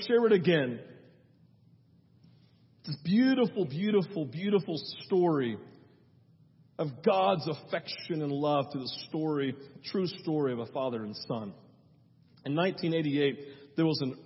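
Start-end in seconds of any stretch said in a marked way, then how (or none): 2.9-11.5 story narration. Acted. Soft storytelling voice.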